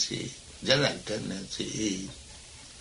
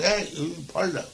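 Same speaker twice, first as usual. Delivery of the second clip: higher-pitched mock warning call; lightly voiced cautioning gentleman; acted warning; 7 semitones higher than usual. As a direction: act out alerting a child to danger. Gentleman warns child on rope.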